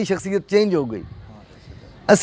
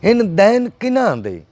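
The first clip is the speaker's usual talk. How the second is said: measured verse, each line falling at its close; poetry recital; 3 semitones lower than usual. Acted. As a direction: recite the couplets to an appreciative listener. Recites his stanza to host.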